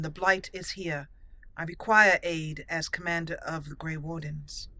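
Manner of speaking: measured, stately Grey Warden commander; formal hero roleplay voice. Acted. Warden commander formally accepting friendship, then urging aid, in a stately roleplay voice. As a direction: speak like a dignified knight asking for help.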